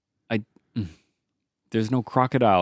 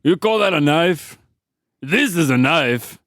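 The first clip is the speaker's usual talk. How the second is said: more of a grunt; 4 semitones higher, slower than usual. Acted. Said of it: "I did a bit more of a grunt then".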